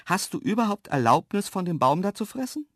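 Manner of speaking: growing impatience. A narrator's reading. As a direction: demand it with rising impatience. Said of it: "ich wurde langsam ungeduldig". (ungeduldig nachhaken)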